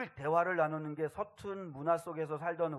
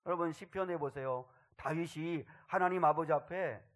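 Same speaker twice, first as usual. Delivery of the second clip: ordinary talk, nothing marked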